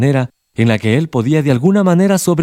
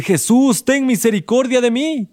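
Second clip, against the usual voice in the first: model prayer; 10 semitones higher than usual. Shown as a demonstration. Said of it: "¿Está dispuesto a decir".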